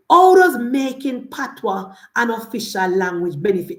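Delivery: loud, heated rhetorical questions; fired-up protest against the party; indignant outburst. Real, not acted. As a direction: hammer each question home in outrage. Ranting against Patois as official language.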